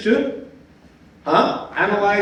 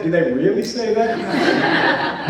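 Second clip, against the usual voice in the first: skeptical aside; much slower than usual. Retold or imitated.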